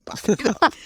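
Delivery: hushed, breathless inner thought; whispered aside. Retold or imitated. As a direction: whisper it to yourself in disbelief. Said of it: "I'm like".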